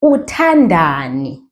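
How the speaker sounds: Uthandani said slowly, syllable by syllable; teacher modelling Uthandani slowly; slow demo word. Shown as a demonstration. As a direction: lay out Uthandani slowly for a student. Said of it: "And if you want to ask them".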